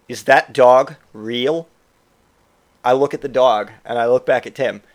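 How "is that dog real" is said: slow, grave question; deadly serious. Retold or imitated. Drunk Tim needs to know about the puppy, deadly serious. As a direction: ask it in dead earnest. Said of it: "he's deadly serious".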